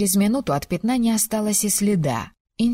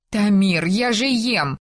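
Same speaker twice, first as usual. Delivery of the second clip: indignant; 3 semitones higher, slower than usual. Acted. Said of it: "возмутилась Мирна".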